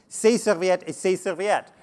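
slow French with an English accent. Shown as a demonstration. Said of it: "apologies for my poor French accent".

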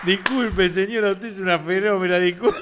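imitated apology, cracking up at the end; retold effusive apology. Marcelito apologizing to the lady, laughing imitation. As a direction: gush an apology while fighting laughter.

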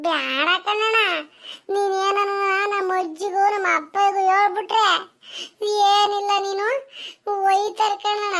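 mock sobbing plea, wailing the name; fake tearful pleading. Boy begs the orchard owner not to tell, fake crying. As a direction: ham up a crying beg for mercy. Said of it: "acting ಮಾಡಿದ್ದ ಅಷ್ಟೇ".

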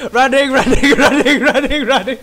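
laughing. Real, not acted. Panicked chase in game.

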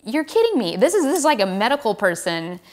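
can't believe a medic said that; retold disbelief. Disbelief at rude nurse.

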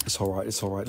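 low, soft consoling murmur; resigned reassurance. Pretend. Seller getting over a lost sale, resigned reassurance. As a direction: soothe quietly, dropping pitch and volume. Consoling after the mock cry.

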